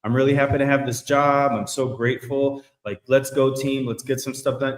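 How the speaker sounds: forced upbeat work voice; fake cheer. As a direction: sell the cheer while hiding misery. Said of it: "and inside you're fucking dying".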